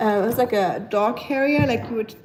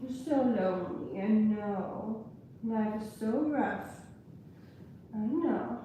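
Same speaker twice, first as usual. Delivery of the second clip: hushed, tender voice for the dog; soft pet talk; 10 dB quieter than usual. Real, not acted. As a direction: coo quietly to the dog. Talks softly to her dog.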